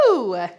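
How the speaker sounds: short, loud whoo with falling pitch; sudden whoop of effort; exertion whoop. Real, not acted. Instructor mid-rep to her class, loud exertion whoop. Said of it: "sorry to scream in your ear".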